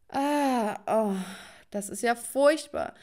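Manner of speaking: drawn-out groan of revulsion; acted disgust. Narrator reacts to eating rose petals, acted disgust. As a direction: groan it, then drag out the complaint.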